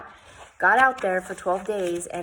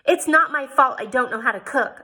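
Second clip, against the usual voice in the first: high and loud, stress on not; cried out; 6 semitones higher, 7 dB louder than usual. A narrator's reading. Jane cries out to Jehu that cooking is not her fault. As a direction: protest loudly, punching not. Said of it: "I cried".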